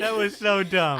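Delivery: exaggerated goofy echo; mock silly voice. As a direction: camp it up in a squeaky mock voice. Mock repeat of own remark.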